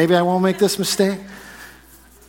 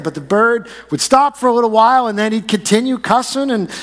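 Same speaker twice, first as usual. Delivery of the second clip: building excitement; 6 semitones higher than usual. Retold or imitated. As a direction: build the tension, pitch rising line by line. Joke building to punchline.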